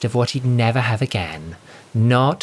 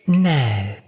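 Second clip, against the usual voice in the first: more sweetly; 4 semitones higher than usual. Acted. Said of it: "more sweetly this time".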